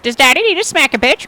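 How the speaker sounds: high, loud threat; loud tough-guy threat; menacing shout. Acted. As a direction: bark it like a bully. GM character threatens.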